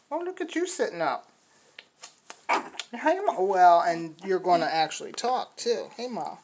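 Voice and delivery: high and loud, delighted at a talking pup; excited puppy talk. Real, not acted. Breeder egging on a talkative puppy, loud high excited calling.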